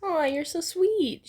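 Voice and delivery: slow, sweet coo. A narrator's reading. Mina to Ida after a hug, slow sweet coo. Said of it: "she coos".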